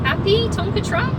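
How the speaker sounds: high-pitched mock-friendly jab; sarcastic taunt. Real, not acted. To the tailgating driver, a high sarcastic taunt. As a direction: needle them in a high voice.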